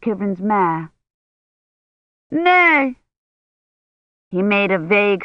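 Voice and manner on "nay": a hint of a brusque churchman; curt envoy. A narrator's reading. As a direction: dismiss her firmly. Envoy's voice in story.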